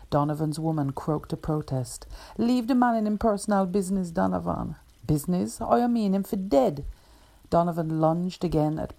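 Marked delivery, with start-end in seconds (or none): 2.4-4.7 quick, raised scolding in Jamaican patois; sharp rebuke. Acted. Woman scolds Donovan, patois. 5.1-6.8 higher, louder indignant challenge; angry retort. Acted. Donovan retorts angrily.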